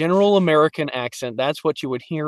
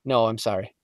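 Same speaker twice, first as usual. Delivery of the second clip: apologetic Canadian lilt, trailing low; lightly voiced polite Canadian; Canadian accent; 4 semitones lower, 5 dB quieter than usual. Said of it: "And also Canadian".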